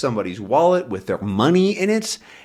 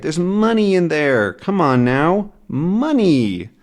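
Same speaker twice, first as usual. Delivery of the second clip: urgent plea; 6 semitones higher, slower than usual. Acted. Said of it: "he says".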